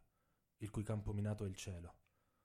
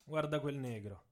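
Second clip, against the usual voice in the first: bitter complaint; 3 semitones higher than usual. Acted. Tommy's quoted complaint.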